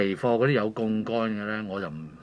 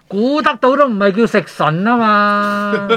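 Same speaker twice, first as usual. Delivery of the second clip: laughing; 8 semitones higher, 7 dB louder, slower than usual. Real, not acted. Joking while laughing.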